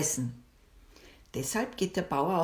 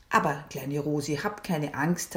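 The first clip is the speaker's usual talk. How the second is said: reassuring; 2 semitones lower than usual. Acted. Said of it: "hat die Maya gelächelt".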